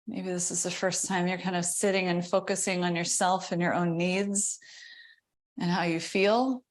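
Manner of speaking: unhurried meditation guide, long pauses between phrases; guided meditation. Real, not acted. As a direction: ease them into settling, leaving space.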